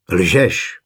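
understated cry of despair; desperate cry. A narrator's reading. Jiřík refusing to believe Kačka, mildly desperate cry. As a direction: cry it out in despair, without full volume. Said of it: "vykřikl Jiřík tak zoufale".

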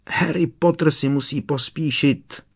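high squeaky elf shriek; shrieking house-elf. A narrator's reading. Dobby shrieks at Harry to hurry. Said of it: "vřískl Dobby".

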